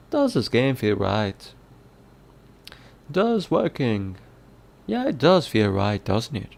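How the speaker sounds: a hint of Irish brogue; lightly voiced Irish reading; Irish accent. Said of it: "not in the Irish accent".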